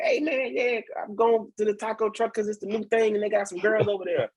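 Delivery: high, eager hype voice; excited hype. Retold or imitated. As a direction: talk it up like the new hot spot. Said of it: "and I'd have been like".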